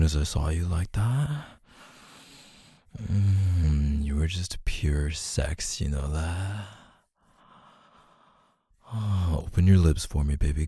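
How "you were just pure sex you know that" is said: slow soft whisper. Acted. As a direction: breathe the words out slowly. Intimate roleplay, whispered compliment.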